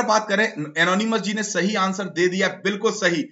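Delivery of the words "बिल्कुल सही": ordinary talk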